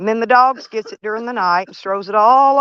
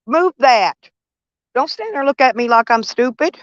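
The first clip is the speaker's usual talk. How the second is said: raised, higher scolding at him; exasperated grandma scolding, a bit higher; 4 semitones higher than usual. Real, not acted. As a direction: tell him off for leaving the hose. Scolding about the hose.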